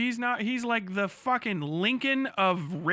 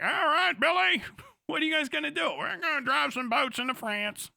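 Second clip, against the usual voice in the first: quick, higher cocky yell; gung-ho American; 3 semitones higher than usual. Retold or imitated. Mock Americans shouting before D-Day, fast and cocky. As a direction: call it like an eager GI. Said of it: "the Americans come like".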